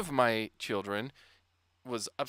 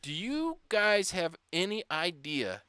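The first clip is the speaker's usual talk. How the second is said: put-on slow, deliberate mom voice asking the kids; stern mom; 4 semitones higher, slower than usual. Mom slowly grilling her kids about a rude word. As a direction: draw it out like a parent demanding an answer.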